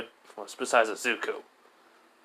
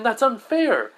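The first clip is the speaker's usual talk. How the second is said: high, loud objection; mock indignant outcry; shocked protest; 11 semitones higher, 6 dB louder, slower than usual. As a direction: protest it loudly, pitch jumping up.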